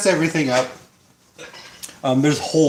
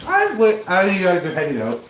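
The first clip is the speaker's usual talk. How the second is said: hillbilly voice; 2 semitones higher than usual. Acted. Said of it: "You like my hillbilly voice?".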